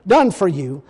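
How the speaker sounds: solemn preacher reading scripture. Acted. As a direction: read the verse with weight, slowing at the end.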